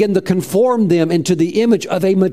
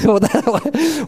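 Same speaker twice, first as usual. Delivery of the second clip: laughing, pitched up, at a naive answer; amused laugh; 8 semitones higher than usual. Real, not acted. Preacher laughing at a believer's naive reason, amused. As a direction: chuckle before answering.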